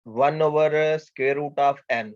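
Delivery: very slow, each word of वन over square root of n spaced out; slow dictation. Shown as a demonstration. Teacher to students writing down the example, slow dictation. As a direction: spell out the expression word by word. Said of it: "teacher dictates next example slowly".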